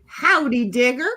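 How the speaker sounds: a half-hearted country greeting; weak howdy. Retold or imitated. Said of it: "I have to do this one over. I sucked at this".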